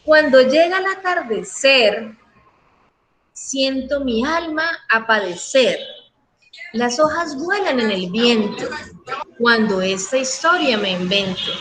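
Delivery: reading a poem aloud. Shown as a demonstration. Teacher reads a rhyming poem to her class, lilting recital. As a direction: read the stanza like a poem for the class. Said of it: "un ejemplo de rima consonante".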